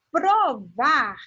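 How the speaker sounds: provar stretched, with a strong final VAR; stress on last syllable. Shown as a demonstration. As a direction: sound out provar, leaning on var. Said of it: "ele tem um som mais forte".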